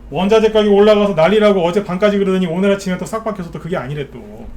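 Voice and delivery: fed up, pushing hard through the complaint; real exasperation. Real, not acted. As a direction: let the frustration burst out loudly. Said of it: "그냥 답답해 죽겠어요".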